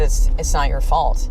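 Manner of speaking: slow, gentle comforting voice; soft loving reassurance. Retold or imitated. Retelling the therapist comforting Matt Damon, gently. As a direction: say it like a tender therapist. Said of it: "in this very kind of soft, like, loving, comforting way".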